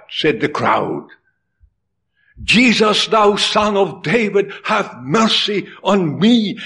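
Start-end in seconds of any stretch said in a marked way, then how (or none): 2.4-6.6 calling out. Acted. Bartimaeus calling again.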